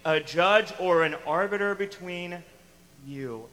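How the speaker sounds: loud, pointed rebuke from Jesus; stern rebuke. Retold or imitated. Jesus rebuking the man who asked for a ruling, sharply. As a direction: call the man out, firmly. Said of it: "he says".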